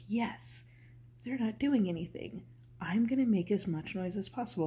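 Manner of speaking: lightly acted, eager troublemaker; gleeful brain. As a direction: pipe up like a brain seizing its chance. Voices the gleefully noisy brain.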